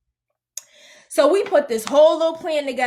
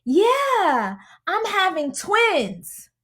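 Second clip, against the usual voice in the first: high, stretched-out happy announcement; imitated excitement; 5 semitones higher, much slower than usual. Expectant mother announcing twins, imitated excitement. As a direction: draw out the big news, pitched up. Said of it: "she was excited".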